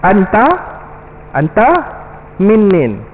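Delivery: Anta min nin with min and nin run together, spoken slowly and deliberately; Arabic street phrase. Shown as a demonstration. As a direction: teach the slang Anta min nin word by word. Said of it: "bahasa pasar dia".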